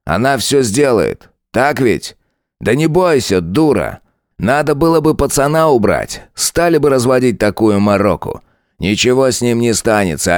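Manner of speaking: mocking lieutenant. Lieutenant Saigar mocking Tanya, lightly voiced sneer. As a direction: lean into the lines like a smug bully.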